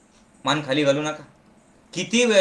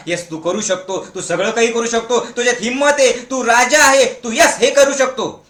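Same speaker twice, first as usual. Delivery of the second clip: building, rising pep talk; positive encouragement; 3 semitones higher than usual. Acted. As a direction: cheer the child on with growing conviction. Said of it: "सतत positive बोला". (प्रोत्साहन देत, चढत्या आवाजात)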